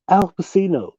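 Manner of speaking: "Al Pacino" with an S sound, pa-SEE-no; mispronounced name. Shown as a demonstration. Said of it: "Nobody's never said this shit".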